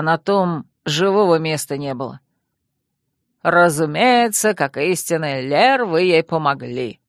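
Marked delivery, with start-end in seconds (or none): 3.4-7.0 sarcastic. Acted. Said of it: "саркастически заметил Дюршак".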